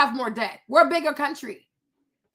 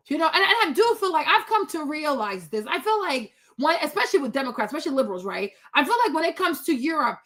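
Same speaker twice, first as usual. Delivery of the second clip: usual speaking voice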